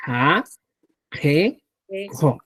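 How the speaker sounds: "A, G, Jo" as separate drilled syllables; demonstrated consonant sounds. Shown as a demonstration. Teacher presenting the second sound group, demonstrated syllables. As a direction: sound out "A, G, Jo" one by one. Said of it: "El segundo grupo, tenemos el".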